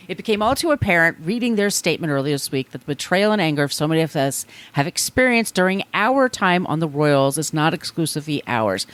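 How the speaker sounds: reading aloud in a light English accent. Shown as a demonstration. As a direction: read the letter in a British accent. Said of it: "I can't do this without doing an English accent".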